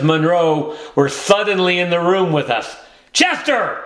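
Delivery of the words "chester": a sudden high yell of the cat's name; screamed. A narrator's reading. The mother catches the cat with her dinner, shrill high yell. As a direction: shriek it, caught in the act. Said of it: "Missus Monroe screamed".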